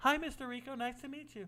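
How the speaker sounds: soft-spoken, very high little voice. Retelling shaking a man's small hand, imitating his soft voice. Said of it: "he's got a soft voice".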